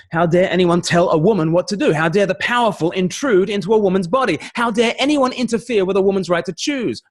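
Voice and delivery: high, rising mock outrage; mock indignation. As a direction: imitate a campaigner's indignant protest, pitch climbing. Mimics pro-choice outrage in rhetorical questions.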